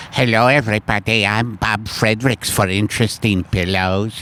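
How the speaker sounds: lightly voiced silly pillow pitchman; put-on accent. Shown as a demonstration. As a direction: demo a goofy accented ad host. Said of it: "sometimes taking an accent like".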